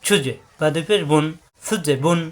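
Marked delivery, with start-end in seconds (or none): 0.0-0.3 ছুজে with a bounced release on the j; short echoing pop after the j of ছুজে; qalqalah bounce. Shown as a demonstration. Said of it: "জিম থাকেন কলকলা".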